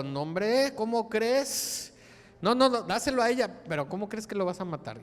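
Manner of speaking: pleading mother. Acted. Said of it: "a la que tenía el bebé vivo dijo".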